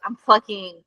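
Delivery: breathless, gasping retelling; panting between words; out of breath. Retold or imitated. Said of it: "I'm out of breath".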